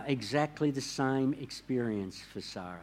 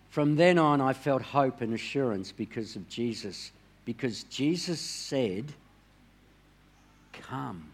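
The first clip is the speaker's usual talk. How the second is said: quoting Sarah. Retold or imitated. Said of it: "This is what Sarah said".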